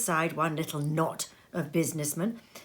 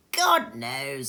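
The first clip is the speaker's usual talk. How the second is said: with a yawn; 5 semitones lower, 3 dB louder than usual. Acted. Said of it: "with a yawn".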